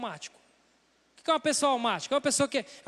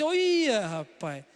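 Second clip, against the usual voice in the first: devil's whisper in the ear; slower than usual. Retold or imitated. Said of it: "o diabo tá falando assim".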